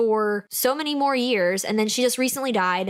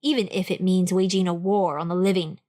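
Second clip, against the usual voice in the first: lower, dramatic book-blurb narration; blurb read; 3 semitones lower than usual. Acted. Podcast host reading the ghost story blurb, dramatic narration. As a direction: read it like a movie trailer teaser.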